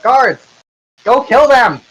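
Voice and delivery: high, loud command to the guards; shouted order. Acted. Milkman yelling at his guards to attack, high and loud.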